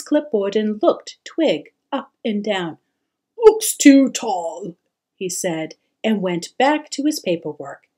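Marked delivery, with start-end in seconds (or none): 3.4-4.8 curt dismissal. A narrator's reading. Pirate's dismissive verdict.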